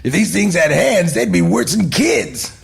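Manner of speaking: high, emphatic character voice; big swings up on hands and kids; Beetlejuice. Acted. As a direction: deliver it as a hammed-up punchline. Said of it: "best Beetlejuice line I've done yet".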